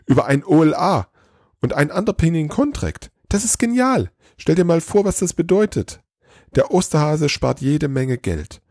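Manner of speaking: high-pitched, gushing elf voice; excited elf. A narrator's reading. Elf pitches the Easter Bunny's overhaul to Santa, excited. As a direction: rave about it in a high, eager voice. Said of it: "immer noch aufgeregt".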